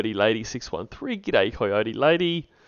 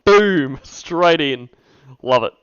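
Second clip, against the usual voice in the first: excited; 4 semitones higher, 9 dB louder, slower than usual. Real, not acted. Cheering the call's opening line.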